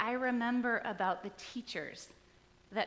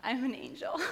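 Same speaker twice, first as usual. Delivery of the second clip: proud little angel. Retold or imitated. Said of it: "had that glory moment in the classroom".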